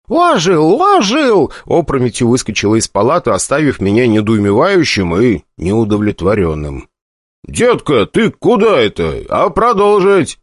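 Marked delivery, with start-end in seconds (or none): 0.1-1.5 high startled shriek. A narrator's reading. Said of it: "с криками". 7.5-10.4 indignant. A narrator's reading. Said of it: "возмутился я".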